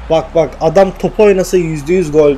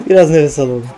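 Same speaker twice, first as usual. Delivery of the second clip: gülerek. Real, not acted. Gergin andan sonra gülerek tekrar.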